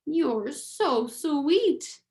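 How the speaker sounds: slow, sweet cooing; cooing princess. Acted. Princess coos over the tiny mouse, slow and sweet. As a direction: coo it slowly like a doting princess.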